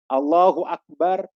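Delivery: slow, drawn-out takbir; stretched-out prayer call at speaking volume. Acted. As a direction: imitate starting prayer with an unhurried takbir. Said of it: "tatkala kita sholat".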